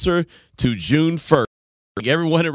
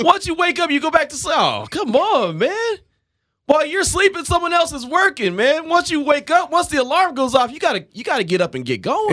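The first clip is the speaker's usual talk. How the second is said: high, hammed-up hustle rant; mock hype lecture; 13 semitones higher than usual. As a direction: preach the grind jokingly.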